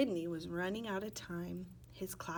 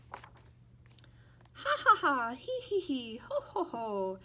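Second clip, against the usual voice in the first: much higher, louder slow cackling laugh fading; helpless laughter; 5 semitones higher, 6 dB louder, much slower than usual. Acted. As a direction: laugh helplessly as you're tickled. Leprechaun is tickled.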